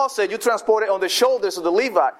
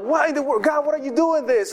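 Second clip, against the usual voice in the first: mild cry of protest to God; 6 semitones higher than usual. Acted. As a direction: cry out in bewildered protest, pitched up. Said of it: "crying out".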